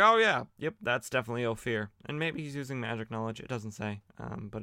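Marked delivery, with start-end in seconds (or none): 0.0-1.9 mock recognition. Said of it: "He's like".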